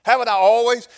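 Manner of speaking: high, pleading donkey; donkey's voice. Acted. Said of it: "She says".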